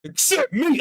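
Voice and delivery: high, whining mock self-pity; whiny complaint. To himself, left out of the rally, mock whine. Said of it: "I was like".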